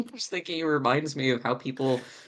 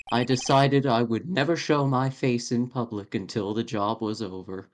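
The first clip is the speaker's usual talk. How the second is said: lion puppet voice. Acted. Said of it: "someone holding a large lion Muppet".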